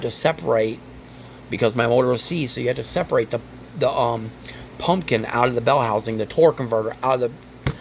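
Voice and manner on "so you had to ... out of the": stumbling over words while upset; tripping over the words, frustrated; stuttering. Real, not acted. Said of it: "I'm stuttering stuff".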